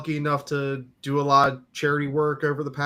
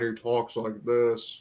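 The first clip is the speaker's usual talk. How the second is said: slow, low-key imitation of a serious guy; very serious impression; 4 semitones lower, 5 dB quieter, slower than usual. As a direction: imitate him slowly, in deadly earnest. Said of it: "very serious".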